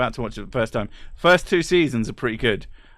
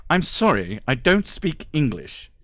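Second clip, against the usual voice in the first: put-on lightly posh English accent; a hint of upper-class British; 3 semitones higher than usual. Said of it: "in a very posh voice".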